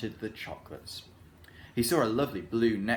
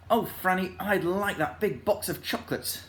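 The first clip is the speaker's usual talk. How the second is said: put-on a lightly higher, beaming boy; 7 semitones higher than usual. A narrator's reading. Rick telling Franny the present he wants, beaming. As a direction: ask with a big grin. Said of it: "beaming all over his face".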